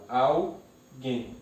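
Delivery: "alguém" slowly split into al, guém; syllable by syllable. Shown as a demonstration. Teacher separates the word, "alguém" syllable by syllable. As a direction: break "alguém" with a pause before guém. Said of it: "eu separo".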